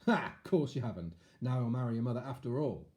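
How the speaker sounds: loud, smug king voice; smug evil king. Acted. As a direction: gloat with a smile. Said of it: "smiling to himself".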